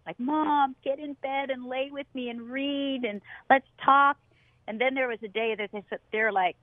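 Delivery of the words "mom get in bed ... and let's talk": higher-pitched imitation of a begging son; mock a little boy begging mom; pleading child. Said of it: "used to beg us".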